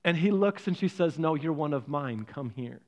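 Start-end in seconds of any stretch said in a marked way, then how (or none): 1.2-2.8 tender mother. Acted. Mother swan claims the lost duckling.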